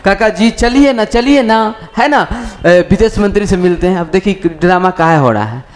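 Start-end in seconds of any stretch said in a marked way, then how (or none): 0.1-4.0 higher, repetitive retold pleading; mock-eager wheedling; eager coaxing. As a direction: imitate someone dying to drag a friend along. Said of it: "वो पगला मरा जा रहा था".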